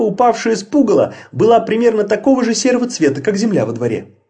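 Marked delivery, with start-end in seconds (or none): none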